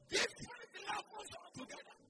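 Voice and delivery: emphatic preaching. Real, not acted. Preaching at full force.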